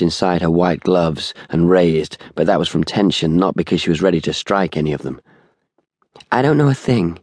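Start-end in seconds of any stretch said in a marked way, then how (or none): 6.3-7.2 a touch of hoarseness, pitched higher; tense woman, lightly hoarse. A narrator's reading. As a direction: deny it with a slightly hoarse voice. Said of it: "she said hoarsely".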